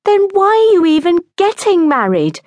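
very high, loud exasperated cry; shrieky sisterly protest. A narrator's reading. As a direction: fling the question out in a high wail. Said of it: "cried her sister".

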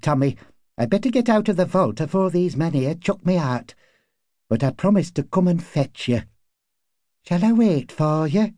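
high-pitched, earnest woman in dialect; neighbour woman. A narrator's reading. Neighbour offers to wait for the husband, high character voice. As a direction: coax him as the worried neighbour, voice lifted. Voices Lily pleading with Tommy.

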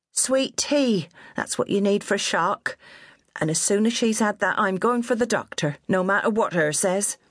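high, bossy West Country nanny voice; scolding old countrywoman. A narrator's reading. Old nurse scolding her fallen charge, high and bossy. Minnie decides on tea and doctor.

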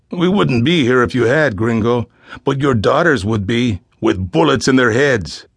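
put-on kidnapper's threat with a light Spanish accent; Spanish-accented English. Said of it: "He addressed the fathers in accented English".

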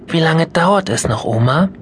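put-on bored kid in the back seat; impatient child. Mia asking grandma in the car, impatient.

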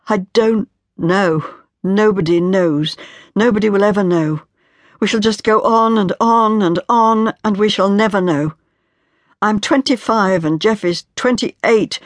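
put-on despairing young wife. Marian's despairing speech.

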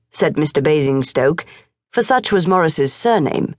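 plain reading voice

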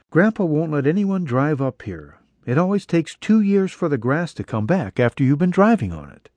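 lightly voiced young woman explaining; her voice. Woman's lines voiced higher.

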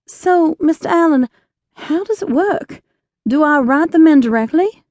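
bubbling with eager questions; eager young woman. Acted.

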